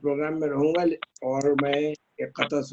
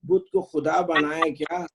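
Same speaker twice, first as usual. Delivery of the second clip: measured couplets with pauses; ghazal recitation. Acted. Poet sharing an old ghazal with friends, measured recitation. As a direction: recite the verse deliberately, half-line by half-line.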